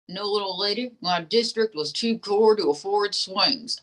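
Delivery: lightly voiced folksy dummy; ventriloquist dummy.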